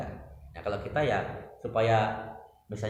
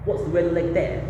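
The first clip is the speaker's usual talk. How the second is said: quoting the Filipina host again in her British-style English, higher; British-accented question, a bit higher and louder; British accent imitation; 6 semitones higher, 5 dB louder than usual. Quoting the Filipina host's British accent to listeners. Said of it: "Dia bilangnya".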